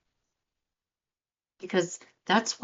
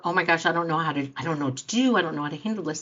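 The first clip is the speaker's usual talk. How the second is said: flustered panic; much faster than usual. Retold or imitated. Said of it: "you're leading from your fear".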